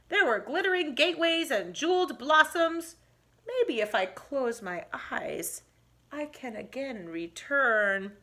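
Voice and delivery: grumble, then drift back to sleep; drowsy old man. Acted.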